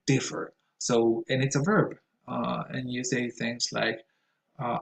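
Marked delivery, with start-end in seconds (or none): 0.1-0.5 differ with DIF stressed; first-syllable stress. Shown as a demonstration. Stating the usual stress, differ stressed on DIF. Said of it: "the stress goes on".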